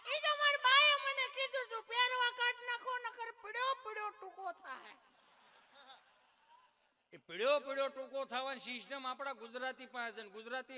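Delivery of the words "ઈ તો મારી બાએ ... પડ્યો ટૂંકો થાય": put-on much higher, louder child laughing through it; laughing schoolboy. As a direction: squeal it out like a giggling boy. (ઊંચા અવાજે હસતો છોકરો)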